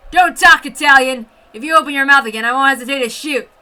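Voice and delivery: loud barked order fading to cold threat; angry threat. Acted. Officer threatening the captive woman, angry loud threat. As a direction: snarl the order at her.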